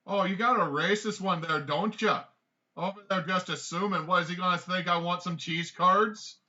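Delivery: high, loud, offended goblin; yelling goblin. Acted. Game master's goblin accuses the stranger of assuming, high indignant yell.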